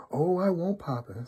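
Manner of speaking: high-pitched obedient little daughter. A narrator's reading. Daughter reassuring her papa as he warns her, high little-girl voice. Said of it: "said little daughter".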